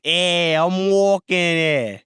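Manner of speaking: put-on slow, drawn-out New York Italian accent; Italian mobster accent. Mobster Roy snaps back in a slow New York Italian accent. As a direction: lean on "walking" in a New York Italian drawl. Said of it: "I'm allowed to do that accent".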